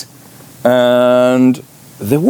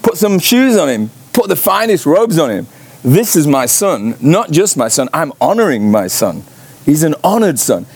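high, excited orders to the household; exultant commanding father; 7 semitones higher than usual. Retold or imitated. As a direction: call out the orders, much higher. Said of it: "And the father says".

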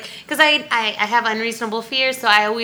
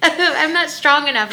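mock helpless; 6 semitones higher, 3 dB louder than usual. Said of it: "is what I told her".

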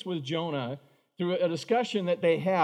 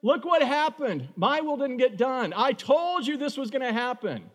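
put-on higher, complaining child to his dad; whiny kid arguing; 5 semitones higher than usual. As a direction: pout it like a sulky son. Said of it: "the kid saying".

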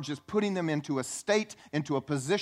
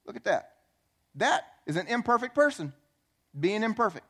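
voicing God; 6 semitones higher than usual. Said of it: "God looks down from heaven and says".

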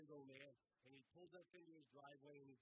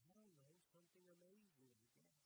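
put-on small boy's shrug; 3 semitones higher, 9 dB quieter than usual. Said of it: "He goes".

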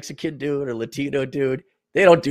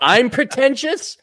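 mock pretentious; 10 semitones higher, slower than usual. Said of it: "you're one of those pe".

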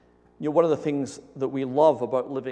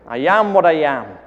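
Popeye; 11 dB louder than usual. Acted. Preacher retrying a cartoon sailor's saying, badly imitated accent. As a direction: belt out a badly faked cartoon sailor line. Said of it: "I can't do the accent".

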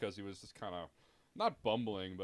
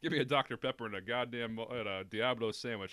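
put-on terrible Southern accent. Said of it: "got a terrible Southern accent".

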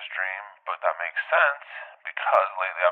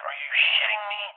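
much higher, incredulous; disbelieving cry; 14 semitones higher than usual. Retold or imitated. Dreamer woken at the best part, incredulous cry. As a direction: squeal it in disbelief.

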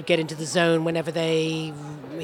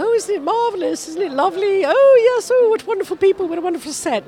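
much higher, louder over-the-top delight; mock gushing; 13 semitones higher, 7 dB louder than usual. Author pretending to love the film set, high hammed-up gushing. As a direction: gush like a thrilled author on set. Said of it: "go in and go".

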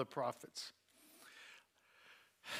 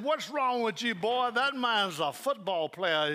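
mock scolding; 6 semitones higher, 6 dB louder than usual. The speaker teasing his friend.

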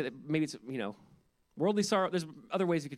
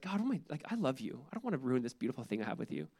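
quieter, softer, heartfelt plea to God; hushed confession of love, softer than before; soft repentant prayer; 3 semitones lower, 5 dB quieter than usual. Retold or imitated. A believer softly tells God he loves him.

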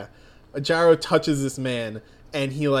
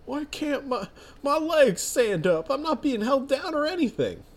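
panicked stranger; 10 semitones higher than usual. Acted. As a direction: shriek in confused alarm as your legs fail. Stranger panics, legs give way.

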